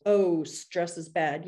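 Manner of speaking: slow, shrugging "Oh, stress is bad." as if it is nothing; a mock shrug of a line; dismissive mock quote. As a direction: brush "Oh, stress is bad." off slowly and lightly. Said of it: "It's not just".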